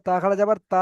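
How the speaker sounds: তা খাড়া যাবার তা with the last তা held long; elongated final TA. Shown as a demonstration. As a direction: spell it out, then stretch the closing তা. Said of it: "টান দিয়ে পড়তে হবে".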